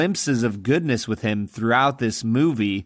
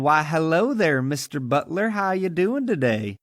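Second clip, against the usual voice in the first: mock Southern airs. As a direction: put on Southern airs and graces, lightly. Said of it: "talks with their airs and their graces".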